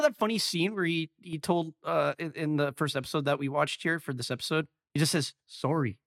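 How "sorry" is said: Canadian sorry. Retold or imitated. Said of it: "he gives a Canadian sorry".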